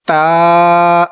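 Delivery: ता held long, not ते; Arabic ta. Shown as a demonstration. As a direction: stretch ता the Arabic way. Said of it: "अरबी में इसको हम पढ़ेंगे ता".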